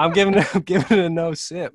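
laughing through the words. Real, not acted. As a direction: verdict broken by laughter. Laughing while rating.

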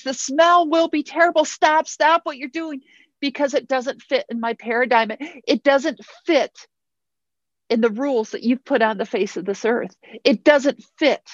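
agitated protest. Acted. Martha begs Jesus to stop, agitated and high. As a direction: Martha pushing back in alarm.

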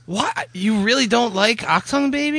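high, disbelieving question; can't believe what he hears; incredulous. Real, not acted. Repeats shock at friend's opinion.

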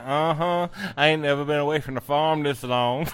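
lightly voiced talking cow; a hint of a put-on cow character. Host quoting Princess the cow, lightly put-on voice. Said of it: "She's like".

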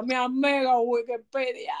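a quick put-on Dominican accent on the phrase; lightly mock Dominican lilt. Host showing off her Dominican accent to co-host, playful Dominican accent. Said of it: "Aquí me pongo dominicana".

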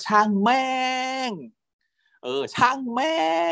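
high, carefree yell to the sea; retold shout. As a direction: shout it out, letting go. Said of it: "ตะโกนเสียงดังว่า".

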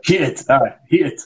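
heated said crisply with a falling end; model pronunciation. Shown as a demonstration. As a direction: demonstrate heated clearly for the student. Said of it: "very good".

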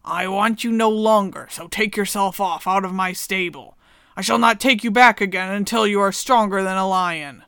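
stern farmer. Acted. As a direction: send the old horse away. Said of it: "and said".

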